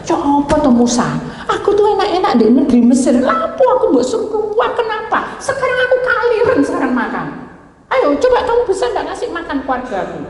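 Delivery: high, laughing complaint in Javanese tone; mock whining Israelite. Preacher mimics Israelites grumbling at Moses, high and laughing. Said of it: "kayak bangsa Israel".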